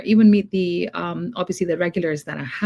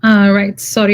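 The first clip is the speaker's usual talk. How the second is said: shouting over fire alarm; 3 semitones higher, 11 dB louder than usual. Real, not acted. Speaking just after loud alarm.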